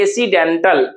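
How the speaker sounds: "एसीडेंटल" in separate parts, ए-सी-डेन-टल; broken up. Shown as a demonstration. Teacher telling students to split it, syllable by syllable. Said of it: "तोड़ के देखिए".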